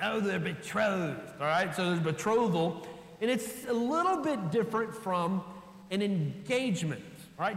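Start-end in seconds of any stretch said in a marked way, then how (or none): 0.0-1.2 deliberately awful put-on English accent. Explaining the word betrothal, said in a really bad english accent. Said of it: "you have to say it with a really bad English accent".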